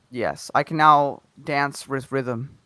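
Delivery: slow flat robot voice. Pretend. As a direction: speak like a machine. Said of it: "you sound like a robot".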